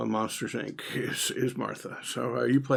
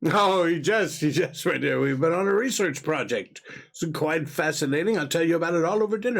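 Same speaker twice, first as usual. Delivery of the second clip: higher, hasty genial husband; smooth over a guest's bad joke; flustered cover-up; 5 semitones higher than usual. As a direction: placate your wife with bluster.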